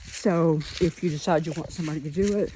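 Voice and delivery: out of breath from walking the yard; panting between words, out of breath. Real, not acted. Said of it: "I'm out of breath".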